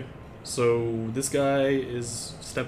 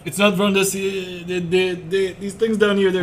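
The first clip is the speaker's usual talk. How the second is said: put-on very old man; 7 semitones higher, 10 dB louder, slower than usual.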